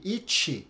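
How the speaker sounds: "it" ending in a hissy CH, like "itch"; Brazilian-style T. Shown as a demonstration. Teacher shows the learner's mistake, "it" with a Brazilian CH ending. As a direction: say "it" with the T softened to CH. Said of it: "se você falar igual ao brasileiro".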